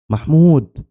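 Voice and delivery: high, desperate call to a friend; screaming. A narrator's reading. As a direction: cry out the name, pitch soaring. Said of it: "جريت عليه وأنا بصرخ".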